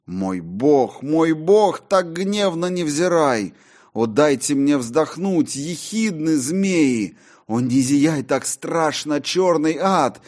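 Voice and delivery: high and loud, pleading in terror; terrified prayer. Acted. John begs God not to look so wrathfully, terrified. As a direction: beg God for mercy.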